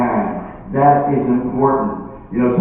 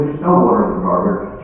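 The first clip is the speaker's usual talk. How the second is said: understated, lower contradiction; dismissive husband; 3 semitones lower than usual. Acted. Husband answering his alarmed wife, mildly dismissive. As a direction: calmly shut down the claim.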